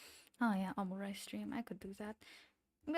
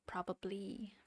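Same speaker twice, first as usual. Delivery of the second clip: whispered probably; 3 dB quieter than usual. Real, not acted. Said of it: "whispered to herself".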